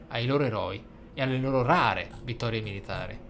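ordinary talk, nothing marked

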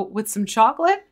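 mom's voice. Retold or imitated. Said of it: "you hear the mom's voice go".

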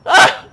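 short loud cry of alarm; sudden gamer yelp; quick loud "ah" of fright; startled yell. Pretend. Player attacked in the game.

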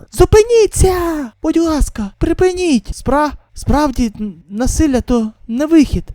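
high, loud, stammering plea; panicked plea. Acted. A frightened survivor begging the brawlers to stop fighting. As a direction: beg them to stop, voice climbing.

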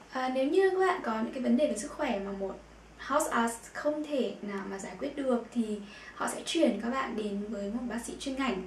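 normal talking voice

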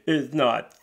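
loud, slow put-on voice; slow, hammed-up insistence; huffy boyfriend. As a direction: demand it back, deeply offended.

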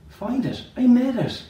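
loud, high indignant cry. Acted. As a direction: exclaim it, offended. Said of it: "cried the, the shoemaker".

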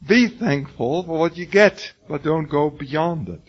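high, exasperated what what what; replaying his own outburst at a confused student, high and exasperated; exasperated retort. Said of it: "And I said".

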